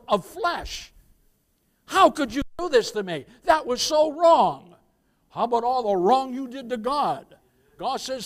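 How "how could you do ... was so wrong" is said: louder, higher wounded accusation; hurt indignant outburst; offended complaint. Acted. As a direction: demand it like you were wronged. Acting out an offended person.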